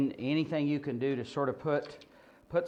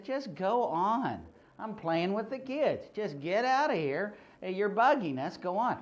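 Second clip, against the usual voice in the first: higher, slow and unbothered shooing away; dismissive brush-off; 5 semitones higher, slower than usual. Retold or imitated. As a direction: wave the nuisance off lazily. Brushing off an accuser.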